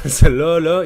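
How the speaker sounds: "cela, là" loud with the Quebec "là" tacked on; Quebec accent. Shown as a demonstration. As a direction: hit "cela" then tag "là" like a Québécois. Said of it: "you add the le".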